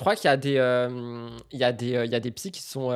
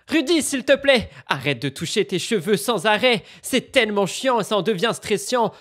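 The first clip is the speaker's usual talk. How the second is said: loud, irritated rant at Rudy; exasperated scolding; 2 semitones higher, 4 dB louder than usual. Real, not acted. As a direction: snap at Rudy, fed up. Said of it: "C'est un peu violent quand même".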